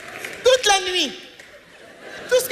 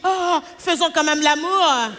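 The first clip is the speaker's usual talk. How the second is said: pleading man; slower than usual. Retold or imitated. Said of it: "Un petit bobo au zizi".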